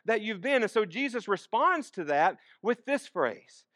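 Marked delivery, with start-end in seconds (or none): 0.0-0.6 slightly raised, insistent questioning; anxious protest. Acted. Followers protesting being left behind, mildly anxious. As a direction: plead with a touch of worry. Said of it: "is an expression of anxiety".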